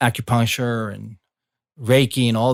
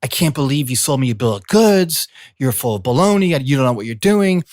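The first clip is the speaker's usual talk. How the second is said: a higher, mildly raised retold rant; mock angry yelling; 3 semitones higher than usual. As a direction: play the frustrated caller, half-hearted anger. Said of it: "He's yelling at me at the phone".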